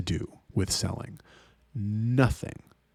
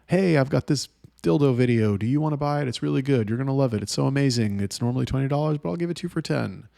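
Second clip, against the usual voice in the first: higher, overeager sales pitch; pushy salesman chatter; 5 semitones higher, faster than usual. Retold or imitated. Untrained chatter pitching a video to a fan, mock pushy salesman. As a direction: push the sale too hard, mocking. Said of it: "And that's how chatters are".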